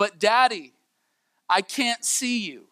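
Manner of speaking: put-on crying child voice, high, drawn-out tearful yell. Retelling a story, the speaker acts out a little boy calling to his daddy, imitating him yelling in tears. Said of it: "this little boy's yelling back in tears".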